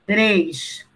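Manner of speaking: slow, spaced-out dictation; dictating. Acted. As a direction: dictate each phrase so students can write. Teacher dictating to class.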